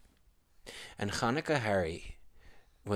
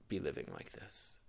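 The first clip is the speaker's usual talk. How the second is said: whispered end of lament; 5 semitones lower, 9 dB quieter than usual. Acted. Old woman to her husband, fading whisper.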